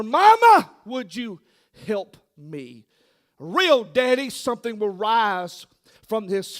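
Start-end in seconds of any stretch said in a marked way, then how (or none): 0.0-2.8 put-on child pleading. Child voiced calling for help.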